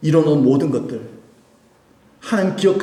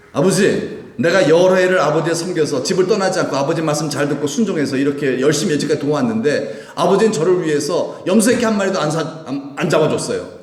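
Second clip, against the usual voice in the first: indignant complaint to a father, raised a little; angry elder son; 3 semitones higher than usual. Acted. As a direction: protest the unfairness in one insistent rush. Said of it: "아버지의 큰아들이 화가 났어요". (화난 큰아들의 항변)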